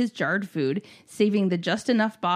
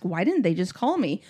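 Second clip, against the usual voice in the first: retold question, held calm and even; forced calm; 3 semitones lower than usual. Fuming mother to grandparents, calmly asking. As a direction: keep it level while privately fuming. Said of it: "but I calmly ask".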